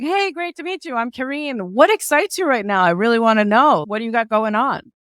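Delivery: loud, high, eager hello that comes right at them; high energy greeting. Shown as a demonstration. Networker greeting a stranger at an event, loud and energetic. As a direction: burst in with energy, really curious. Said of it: "approach someone and be like".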